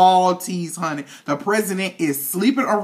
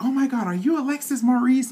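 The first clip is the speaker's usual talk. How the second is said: imitated excited fan; 4 semitones higher than usual. Acting out excited fan approaching.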